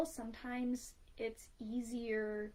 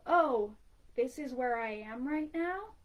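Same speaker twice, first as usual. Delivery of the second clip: relieved realization; 6 dB louder than usual. Retold or imitated.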